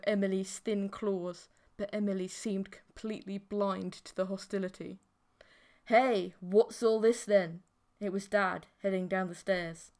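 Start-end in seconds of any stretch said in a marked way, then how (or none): 5.9-7.6 louder, slow gruff father; gruff call. Acted. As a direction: demand an explanation. Dad comes down stairs.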